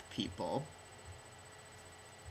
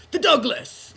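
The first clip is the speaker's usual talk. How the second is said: sudden very high, very loud yell of a name; jumping yell of the Douglas's name; Steve Holt shout; 14 dB louder than usual. Retold or imitated. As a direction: bellow the name like a war cry. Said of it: "Steve Holt from Arrested Development".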